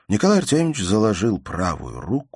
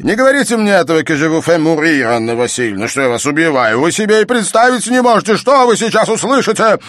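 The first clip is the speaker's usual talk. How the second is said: furious shout; 13 semitones higher, 11 dB louder than usual. A narrator's reading. Father shouts at his insolent daughter furiously. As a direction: hurl the insult at her.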